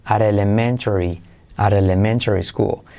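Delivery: "at elementary" joined as "arelementary"; T as soft R. Shown as a demonstration. Teacher drilling the link, "at elementary" with soft R. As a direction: glide from "at" to "elementary" on a tap. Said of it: "la T se convierte en E suave".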